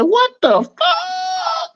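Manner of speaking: high squeaky drawn-out what the fuck; shocked squeal, stretched out slowly; stunned disbelief. Retold or imitated. Man retelling his shock at the spirit's answer, squeaky and slow. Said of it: "the spirit came back to me and said".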